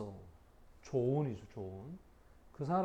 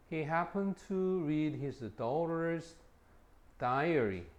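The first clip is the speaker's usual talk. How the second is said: slow reading; much slower than usual. Shown as a demonstration. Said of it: "slow example reading".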